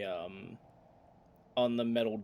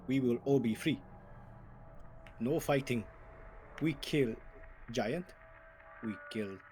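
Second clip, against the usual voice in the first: orc chief speech. Acted.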